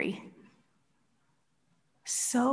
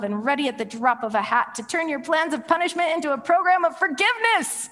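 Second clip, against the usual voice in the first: high, ranting outburst building to a peak; acted tantrum, climbing to a shouted finish; furious yelling; 4 semitones higher than usual. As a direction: lose your temper and rail at God. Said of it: "Jonah was furious. He lost his temper. He yelled at God".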